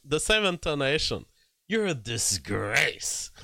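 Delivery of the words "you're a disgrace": slow, drawn-out imitation of her delivery; mock Kamala line. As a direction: lightly copy her practiced intonation. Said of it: "she says it with the same intonation".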